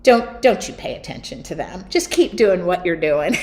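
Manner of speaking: lightly imitated Oklahoma Southern accent; Darla. Darla advising the painter to ignore critics, light Oklahoma Southern accent. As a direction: put on a hint of Southern accent, a laugh creeping in. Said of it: "in her Oklahoma Southern accent".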